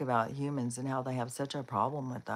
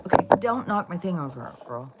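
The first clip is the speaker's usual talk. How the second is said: real pet telling-off, voice raised; scolding the dog; 3 semitones higher, 6 dB louder than usual. Real, not acted. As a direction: warn the dog off, exasperated.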